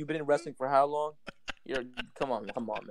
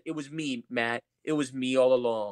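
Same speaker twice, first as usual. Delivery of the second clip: anticlimactic delivery; 3 semitones lower than usual. Retold or imitated. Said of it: "in that exact tone".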